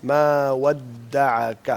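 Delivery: very slow ما ودعک with lips rounded. Shown as a demonstration. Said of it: "ہونٹوں کو کول کریں". (ہونٹ گول کر کے آہستہ ما ودعک)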